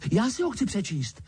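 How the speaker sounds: put-on high, stung boyish anger; angry. A narrator's reading. Harry angrily claims his letter, high. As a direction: demand it angrily. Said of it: "řekl Harry navztekaně".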